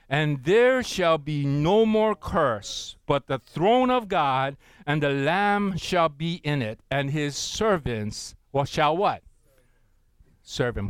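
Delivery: slow, loud unison reading; measured congregational reading; slow scripture reading. Acted. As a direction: read it out with the church, slowly. Congregation reads scripture together.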